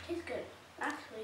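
eating while talking; mouth full. Real, not acted. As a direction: hand over mouth. Seen 1: Hand holds food at lips 0.1–1.0s, then lowered.

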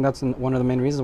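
speaking around cigar tip; cigar at lips. Real, not acted. Seen 0: cigar end touches or sits near lips 0.4-1.1, then lifted away.

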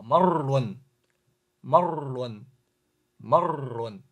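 marlon with the trilled r sounded, no stop; teacher showing marlon said smoothly, trilled r; trilled r, no pause. Shown as a demonstration. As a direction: roll the r in marlon straight through. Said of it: "要按规则发音，而不是停顿".

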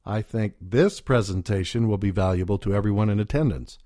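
"this" punched, set apart from the other words; stress on this. Shown as a demonstration. Speaking coach showing audience how stressing "this" singles it out. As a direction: hit "this" to single out this one talk. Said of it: "The emphasis states that this specific presentation".

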